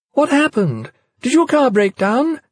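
strained and shrill with worry. A narrator's reading. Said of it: "A voice sounded shrill, oddly strained".

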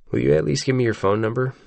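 a touch of fear in the asking; scared of a no. A narrator's reading. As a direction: ask as if expecting to be refused. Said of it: "asks that like he's scared".

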